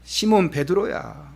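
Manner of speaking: slow, tender calling of his name; intimate call by name. Acted. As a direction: call him close and fond, slowly. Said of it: "아주 친밀감 있게". (친근하고 다정하게 천천히 이름 부르기)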